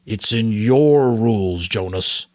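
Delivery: steady storytelling read to a class; story read aloud. A narrator's reading. Teacher reading the novel aloud to students, in an even storytelling voice. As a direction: read the novel to the class, letting the Giver's lines rise.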